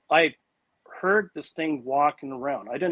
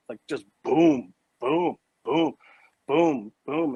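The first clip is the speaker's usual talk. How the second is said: imitated booms; slower than usual. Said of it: "it sounded like someone was dropping a safe".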